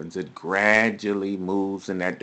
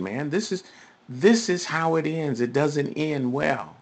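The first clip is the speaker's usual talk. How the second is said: raised, higher-pitched preaching; emphatic warning; 5 semitones higher, 3 dB louder than usual. Real, not acted. Preacher warning listeners how sin ends, emphatic. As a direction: press the warning home with rising force. Preacher warns of sin's wages.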